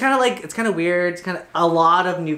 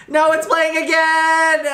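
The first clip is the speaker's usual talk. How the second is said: surprised; 11 semitones higher, 4 dB louder, slower than usual. Real, not acted. Clip restarts unexpectedly.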